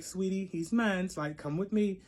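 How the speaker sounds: retold mock-sweet claim, kept soft; play voice. Telling the other girl he's hers, in a play voice. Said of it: "I'm in my play voice".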